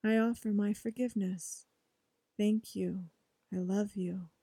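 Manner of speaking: quiet, measured mantra recitation; soft affirmation. Shown as a demonstration. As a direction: say each phrase softly like a prayer. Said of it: "you are saying".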